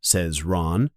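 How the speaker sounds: Ron voice. A narrator's reading.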